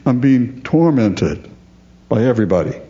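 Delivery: high, whining self-pity; false humility. Retold or imitated. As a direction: play the martyr, fishing for sympathy. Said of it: "a false kind of humility".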